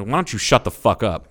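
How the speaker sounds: firm, cold command to shut up. Retold or imitated. To the bully at the art table, a cold angry snap. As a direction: say it exactly like that, flat and hard. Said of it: "And just like that".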